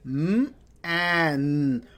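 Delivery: "Mm, an" held apart; sounding out. Shown as a demonstration. Teacher segmenting the word for students. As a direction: sound out "Mm" then "an". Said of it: "sounding out again".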